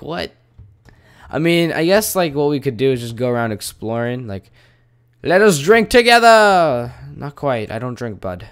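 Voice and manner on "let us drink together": high, loud, slow hammed-up toast; tavern drinker. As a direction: bellow it like a merry drinker, drawn out. Voicing game character's invitation.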